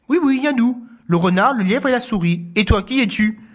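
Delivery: high little answer; mouse voice. Acted. Animals answering the boar, high. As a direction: answer the newcomer.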